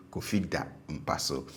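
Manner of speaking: DA low in "Kofi da mpa so"; stative low tone. Shown as a demonstration. Teacher repeats the stative example, DA low. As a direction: keep DA down, softly said. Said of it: "stative form tends to be low".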